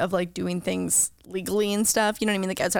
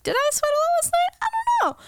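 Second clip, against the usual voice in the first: groggy self impression; faster than usual. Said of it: "I'm like".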